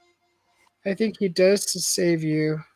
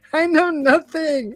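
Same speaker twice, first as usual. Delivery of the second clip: slow, high comic "I know nothing"; mock innocent protest; hammed-up denial; 9 semitones higher, 3 dB louder, slower than usual. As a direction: play the bumbling guard denying all. Repeats joke line for Mikey.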